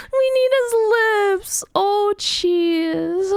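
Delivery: squealing through laughter; laughing while talking. Real, not acted. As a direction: laugh out the words. Laughing at the drawing.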